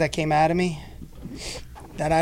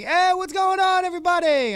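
imitating Lou. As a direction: imitate a DJ hyping the crowd. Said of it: "I heard Lou, like".

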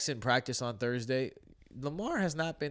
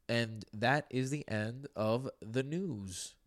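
news sign-off; 4 dB quieter, slower than usual. Pretend.

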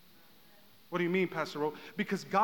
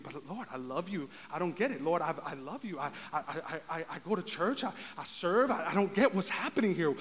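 softly pleading with God, mock confusion; a quiet, puzzled believer's prayer; plaintive prayer; 2 semitones lower, 7 dB quieter than usual. Voices a confused believer praying.

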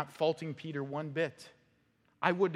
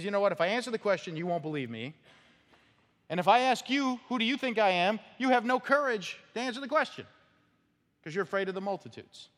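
raised, loud, pressing each line harder; forceful rebuke; 7 semitones higher, 5 dB louder than usual. Retold or imitated. Jesus confronting the council with a loud, raised rebuke. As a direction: drive it home like a challenge.

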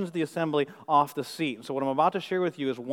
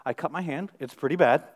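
calm. Retold or imitated. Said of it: "I very calmly said".

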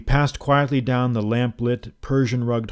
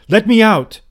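higher, loud alarmed cry; 10 semitones higher, 11 dB louder than usual. A narrator's reading. Trapped guest crying out to his host in alarm. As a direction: shout for help, panicked. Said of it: "I cried".

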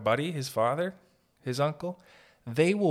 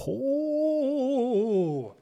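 high nostalgic oh; 13 semitones higher than usual. Real, not acted.

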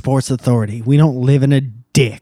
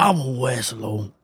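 slow and much softer; small mock voice; 8 dB quieter, slower than usual. Ending the towel costume joke, soft slow mock voice. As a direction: trail it out as a quiet pretend declaration. Same costume act, voice dropped.

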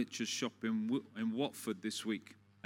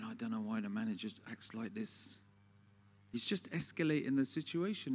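gossiping aside; 3 semitones lower, 5 dB quieter than usual. Retold or imitated.

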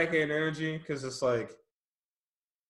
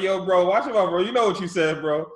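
retold loud warning; 4 semitones higher, 6 dB louder than usual. And I was like.

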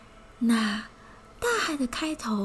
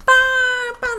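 elephant trumpet sound; 13 semitones higher, 8 dB louder than usual. Acted. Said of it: "大象用长鼻子发出".

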